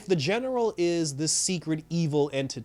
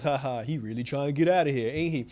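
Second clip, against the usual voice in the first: mocking laugh. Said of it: "the general starts laughing and goes".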